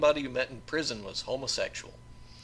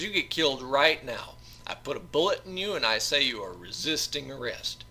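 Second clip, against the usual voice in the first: menacing southern guard; 6 semitones higher, 6 dB louder than usual. Acted. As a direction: lean on him with cold menace. Guard threatens George with pistol.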